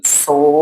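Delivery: "solado" as long so... la... do with wide gaps; separado em sílabas. Shown as a demonstration. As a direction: break "solado" into three held syllables. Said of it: "Precisaria de". ("solado" sílaba por sílaba, com pausas)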